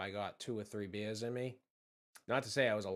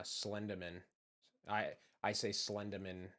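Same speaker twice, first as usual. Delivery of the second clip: Boston-accented "Slenderman", R dropped. Shown as a demonstration. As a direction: say "Slenderman" with no R, ending "-dah-man". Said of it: "I'm from just south of Boston".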